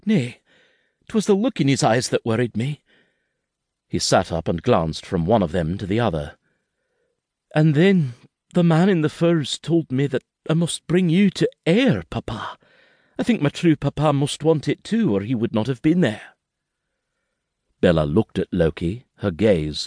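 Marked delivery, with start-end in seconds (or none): 0.1-2.8 put-on high, rushed frightened child voice; a scared little boy pleading with his papa; frightened boy's voice, pitched high; young boy Kenzie. A narrator's reading. 7.5-16.4 put-on high, rushed frightened child voice; a scared little boy pleading with his papa; frightened boy's voice, pitched high; young boy Kenzie. A narrator's reading.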